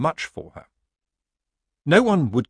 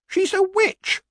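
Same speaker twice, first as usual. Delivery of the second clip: far higher, frightened squeak; 4 dB louder, slower than usual. A narrator's reading. Villager squeaking about the witch. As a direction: squeak it out in terror.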